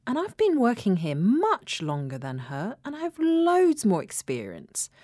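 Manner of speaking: aggrieved complaint. Acted. Passed-over worker complains to colleague about promotion, aggrieved. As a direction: protest the unfairness.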